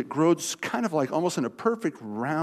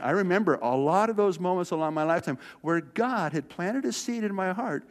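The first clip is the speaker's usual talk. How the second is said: normal talking voice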